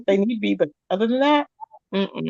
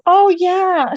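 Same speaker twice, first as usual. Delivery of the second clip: put-on high, airy ditzy girl voice; mimicking a ditzy girl; 8 semitones higher than usual.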